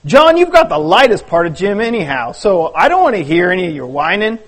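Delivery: lightly voiced fishermen grumbling under a load; hint of complaining men carrying a friend; story characters bickering.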